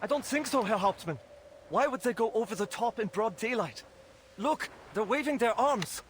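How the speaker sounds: high-pitched, agitated soldier; urgent lookout report. Acted. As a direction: call it out urgently to the captain. Soldier urgently reports what he sees.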